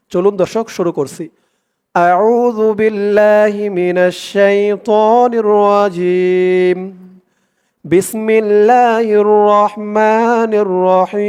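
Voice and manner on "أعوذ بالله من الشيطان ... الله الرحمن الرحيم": slow, drawn-out Quranic recitation. Shown as a demonstration. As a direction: recite each word slowly and evenly. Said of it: "আমি যেখানে যেমন টান করব". (ধীর তিলাওয়াত)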